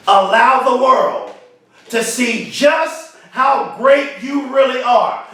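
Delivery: said again. Shown as a demonstration. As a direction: repeat it slowly, with weight on great. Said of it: "I'm gonna say that again".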